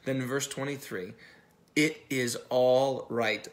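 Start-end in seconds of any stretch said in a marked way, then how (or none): 1.7-3.5 slow, gentle reassurance; calm a frightened man, unhurried; the Lord soothing Gideon, slow and gentle; reassuring Lord. Acted. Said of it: "the Lord replied".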